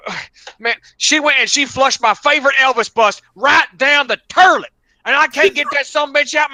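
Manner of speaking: rambling upset caller. Retold or imitated. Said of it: "And he goes".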